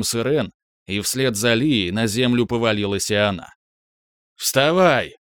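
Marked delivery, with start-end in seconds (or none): 4.4-5.2 громкий резкий окрик; рявкни приказ; рявкнул. A narrator's reading. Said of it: "рявкнул он на Лис". (Рискар рявкает на Лис, громко и резко)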